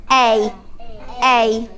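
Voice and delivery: teacher's own southern A sound; southern English vowel. Shown as a demonstration. Teacher modelling her Berkshire vowel to children. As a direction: say A the southern way, open and short. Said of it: "I've got a bit of a different accent from you".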